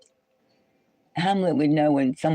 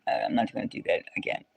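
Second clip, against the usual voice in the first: quick whisper; 7 semitones lower, 5 dB quieter, much faster than usual. Retold or imitated. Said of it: "So I said".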